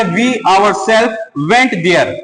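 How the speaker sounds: "We ourselves went there" read very slowly with weight on "ourselves"; emphatic reading. Shown as a demonstration. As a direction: stress "ourselves", word by word. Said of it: "ये वाक्य में जोर डाल के". ("ourselves" पर ज़ोर देकर धीरे-धीरे पढ़ें)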